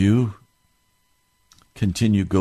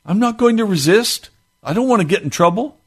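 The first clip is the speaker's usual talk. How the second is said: much higher, faster mock whine; mock timid whine; 11 semitones higher, 5 dB louder than usual. Preacher mocking citizens afraid of trouble, high whiny.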